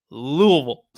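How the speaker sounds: Louisville mumbled as "Loo-uh-vul"; marble-mouthed Louisville. Shown as a demonstration. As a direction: model Louisville as a slurred "Loo-uh-vul" to repeat. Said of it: "Say it with me".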